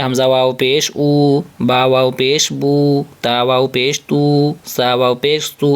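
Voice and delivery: او، بو، تو each drawn out slowly; slow spelled syllables. Shown as a demonstration. Teacher drilling the long و syllables, slowly. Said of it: "کیسے پڑھیں گے؟".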